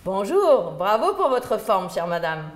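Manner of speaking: forte voix pour une sourde; crié fort. Retold or imitated. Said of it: "m'obligeait à hurler". (on crie à la centenaire qui entend mal)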